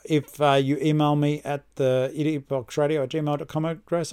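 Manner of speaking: losing the voice, going faint; voice cutting out. Real, not acted. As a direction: voice dropping out mid-sentence. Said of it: "I don't know why I lost my voice then".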